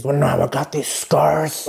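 lightly voiced menacing villain; film villain quote. Vlogger quoting a villain about scars, mock menace.

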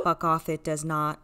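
flat synthesized clone; deadpan text-to-speech copy; computer voice. Acted. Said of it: "it sounds just like him".

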